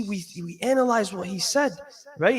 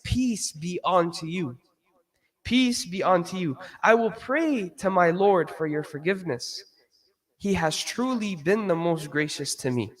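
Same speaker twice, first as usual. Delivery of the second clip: respectful gentle reply; 6 semitones lower than usual. Retold or imitated. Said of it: "with the most respectful of answers".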